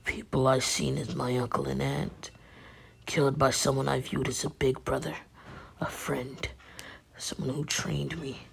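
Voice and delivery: understated, earnest and subdued; Naruto. Acted. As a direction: speak with hushed gravity to a close friend. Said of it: "Naruto's like".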